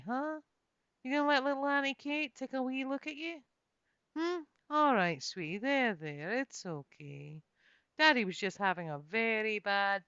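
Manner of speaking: gentle baby talk, lightly voiced; soft warm soothing. Comforting baby Colwyn after the fight, soft and warm. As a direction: coo to calm a crying baby. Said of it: "in a soft, warm voice".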